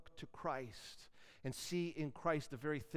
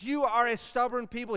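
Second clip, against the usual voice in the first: much higher and louder, exasperated scolding; angry rebuke; 8 semitones higher, 9 dB louder than usual. Acted. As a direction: scold the people, fed up. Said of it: "So Moses gets mad".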